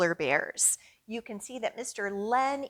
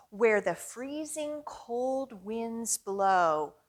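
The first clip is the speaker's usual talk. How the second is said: slow rhyme demo; much slower than usual. Shown as a demonstration. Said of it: "make a blowing sound".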